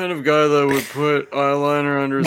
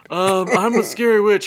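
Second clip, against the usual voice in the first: Jared Leto as a witch; 4 semitones higher than usual. Retold or imitated. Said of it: "He'd be like".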